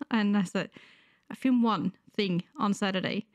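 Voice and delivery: sick, wheezy voice; talking through a cold. Real, not acted. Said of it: "sorry if I sound a lit-, little bit wheezy".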